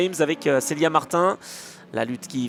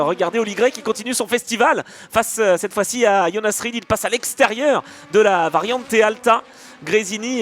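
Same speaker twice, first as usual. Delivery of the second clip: excited motorsport commentator; 5 semitones higher than usual. Real, not acted. Live overtake call.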